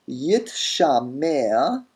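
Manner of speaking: yit shamer slowly, t before sh; expected form. Shown as a demonstration. Teacher giving the expected form, yit shamer. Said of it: "we expect".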